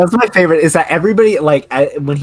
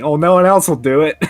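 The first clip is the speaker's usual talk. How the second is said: retold Felix voice; 8 semitones higher, 6 dB louder than usual. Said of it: "he's just like".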